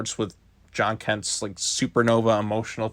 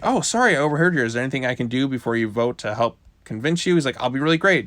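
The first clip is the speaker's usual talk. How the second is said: excited John; faster than usual. Retold or imitated. John eagerly asking the team to let him join, excited. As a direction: jump in keen and hopeful. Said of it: "He's really excited".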